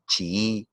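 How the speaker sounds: "chií" slowly, as chi-í with a long double i; separated vowels. Shown as a demonstration. Teacher giving "chií" as an example of hiatus, separated vowels. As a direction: stretch the two i's of "chií". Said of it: "las vocales cerradas iguales se separan".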